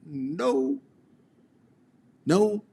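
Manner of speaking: ordinary talk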